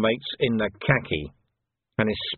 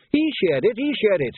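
higher, louder panicked accusation; Quirk accusing; 11 semitones higher, 4 dB louder than usual. Acted. Quirk blurting out blame at young Sam Vimes. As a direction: point the finger, voice jumping up.

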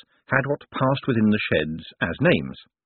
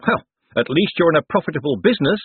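cheerfully; 7 semitones higher, 4 dB louder than usual. A narrator's reading. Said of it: "said Moist cheerfully".

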